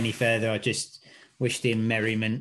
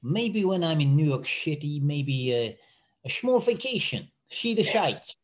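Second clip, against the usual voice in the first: a light put-on Dutch accent, higher toward the end; Yorick's Dutch accent; 3 semitones higher than usual. A light Dutch accent voicing Yorick's New York trip. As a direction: mimic a Dutch friend in a loose Dutch accent. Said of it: "how would he say in Dutch?".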